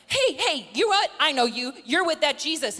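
acted-out confrontational heckle; mock accuser. Acts third accuser calling Peter out.

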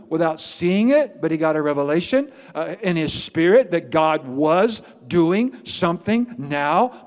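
building preacher's cadence, pitch climbing toward the end; preach. Real, not acted. Pastor telling congregation of God's hidden work, fervent preaching. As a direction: pile up phrase on phrase with rising fervour.

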